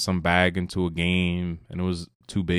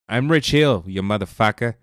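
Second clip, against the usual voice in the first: loud, cocky mock tough-guy yell; mock shout; 2 semitones higher, 5 dB louder than usual. Imitating the arrested pitcher taunting security, loud mock yell. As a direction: bark it like a cocky drunk fan.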